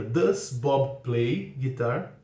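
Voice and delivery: "Does" put first, each word drawn out; very slow question. Shown as a demonstration. Teacher modelling the question for students, very slow. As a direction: ask it very slowly and clearly. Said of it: "a pergunta fica".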